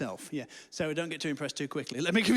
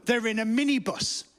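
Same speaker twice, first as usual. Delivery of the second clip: midwife admitting it; 4 semitones higher, 4 dB louder than usual. Acted. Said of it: "She said".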